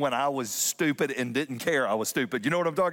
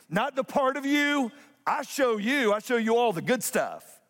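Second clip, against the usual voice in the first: much higher, urgent preaching push; rising passion; 8 semitones higher than usual. Real, not acted. Pastor pressing the point to church, much higher urgent. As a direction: climb in pitch as you plead.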